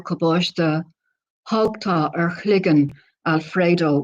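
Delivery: measured Irish-language recital, line by line; poem reading in Irish. Acted. Poet reads the Irish original after the translation, measured poem reading. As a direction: recite the Irish verse deliberately with pauses between phrases.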